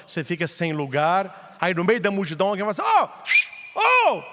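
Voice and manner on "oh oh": high surprised call, Oh! Oh!. Retold or imitated. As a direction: hail a friend across the crowd. Someone calls out in crowd.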